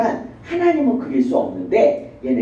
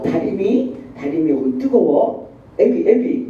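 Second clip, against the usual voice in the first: mother's warning; slower than usual. Retold or imitated. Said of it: "막 이래요".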